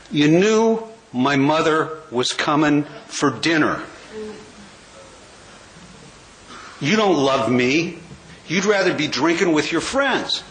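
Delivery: measured, spaced-out imitation of a hurt wife; reproachful wife. Wife to drinking husband who missed dinner, mock reproach.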